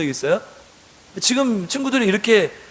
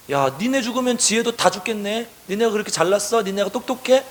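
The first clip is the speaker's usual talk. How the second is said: mildly acted jeering retort; a touch of scornful sarcasm; sarcastic. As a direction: needle them with mocking questions. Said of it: "이런 어투로 얘기를 하는 것이죠".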